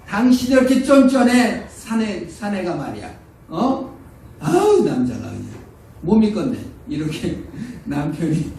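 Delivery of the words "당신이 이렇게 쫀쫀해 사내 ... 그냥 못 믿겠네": higher and louder, the wife scolding her stingy husband; nagging wife. Retold or imitated. Wife belittling her husband at home, nagging scolding. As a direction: scoff at him as a petty man. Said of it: "부인이".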